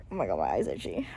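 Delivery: a low whisper while fighting tears; tearful whisper. Real, not acted. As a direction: whisper it as you dab your eyes. Reader wiping tears.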